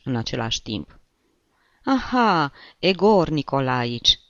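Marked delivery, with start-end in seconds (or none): 1.8-4.2 singsong, high and loud greeting; glas cântat. A narrator's reading. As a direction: draw the name out in a lilting welcome. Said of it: "zise părintele Cristofor cu glas cântat". (glas cântat, tărăgănat și ridicat)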